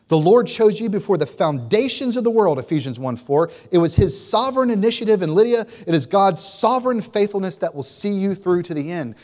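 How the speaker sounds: building to a loud, fervent preaching voice; rising up to proclaim the Lord's work, loud and high; Paul preaching to Lydia. Acted. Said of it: "Paul is speaking right to you".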